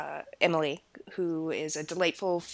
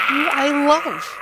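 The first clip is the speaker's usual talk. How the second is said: gushing; 6 semitones higher, 8 dB louder, slower than usual. Real, not acted. Gushing over Claire.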